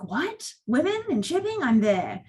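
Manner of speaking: half-hearted mock excitement; mock eager. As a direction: play up the thrill of finding them. Retelling own eager reaction.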